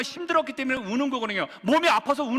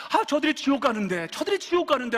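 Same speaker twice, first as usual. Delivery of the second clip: mild mock weeping plea, without real sobs; acted tearful lament; 3 semitones higher than usual. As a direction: lament for the lost, repeating it with growing urgency. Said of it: "하면서 우는 거예요". (우는 듯 안타깝게 탄식)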